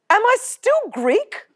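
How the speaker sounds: a lost high little "Am I still Greek?"; naive question. Retold or imitated. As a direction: ask it like a bewildered child. Stunned, blurting first question.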